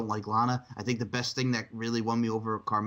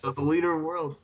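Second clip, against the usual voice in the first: dramatic villain voice; 4 semitones higher, 4 dB louder than usual. Pretend. Echoing the team name in character.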